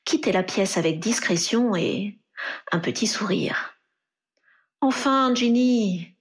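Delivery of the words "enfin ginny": protesting. A narrator's reading. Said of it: "protesta Harry".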